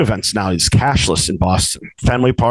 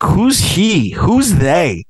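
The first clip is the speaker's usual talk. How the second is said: higher, baffled mock questioning; retold incredulous challenge; 5 semitones higher, much slower than usual. Customer challenges laundromat lady over coins, incredulous. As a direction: act out a disbelieving challenge. Retelling own challenge to clerk.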